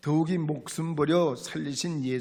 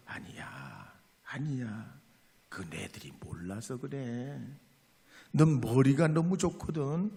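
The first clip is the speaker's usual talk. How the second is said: comforting mother. Retold or imitated. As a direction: soothe him like a mother holding her child. Mother hugging, comforting son.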